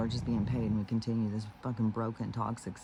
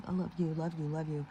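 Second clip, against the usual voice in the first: higher-pitched, lightly imitated lovey-dovey chant; mock gushing affection; 5 semitones higher, faster than usual. People hanging out together, imitated in higher, gushy affection. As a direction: imitate people cooing their love.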